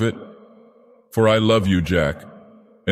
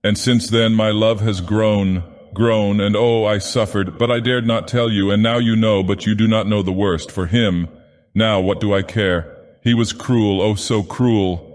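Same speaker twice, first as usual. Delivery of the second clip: higher, strained voice breaking into pleading; strained, anguished confession; 3 semitones higher than usual. Acted. Sylvia confesses her past to Jack, strained and pleading. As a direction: plead through rising anguish. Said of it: "a voice changed and strained".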